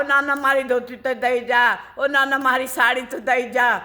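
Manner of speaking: mild retold yell after the running boy; old woman shouting after the boy who ran off with her dhoti; calling out. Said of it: "वो चिल्लाओ".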